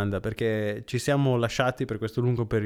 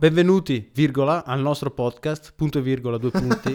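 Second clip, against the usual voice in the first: louder dictation reading virgola and punto aloud; dictating; 2 semitones higher, 5 dB louder than usual. Shown as a demonstration. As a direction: dictate it with the punctuation spoken. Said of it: "Virgola, virgola".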